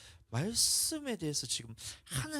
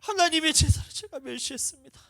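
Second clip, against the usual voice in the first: much higher, louder confession with tears; tearful confession; 14 semitones higher, 10 dB louder than usual. Retold or imitated. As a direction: confess it to God breaking down. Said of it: "회개가 튀어나오는지". (훨씬 높고 크게 울먹이며 고백)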